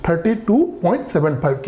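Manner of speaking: "thirty two point seven five" said slowly with digits single; slow and clear, "seven five" digit by digit; correct reading again. Shown as a demonstration. Teacher repeats the right reading slowly, "seven five" digit by digit. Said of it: "we will call it as".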